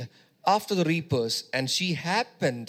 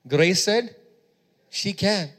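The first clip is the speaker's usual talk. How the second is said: emphatic restatement; slower than usual. Shown as a demonstration. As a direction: hit said harder the second time. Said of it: "But Grace said she can".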